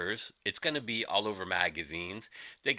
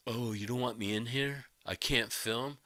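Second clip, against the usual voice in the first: soft whiny mock complaint; mocking whine; 5 dB quieter than usual. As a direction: whimper it like a sulking guest.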